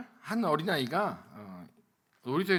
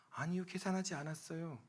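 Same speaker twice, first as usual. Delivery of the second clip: ordinary talk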